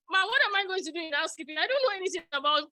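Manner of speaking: mock protest.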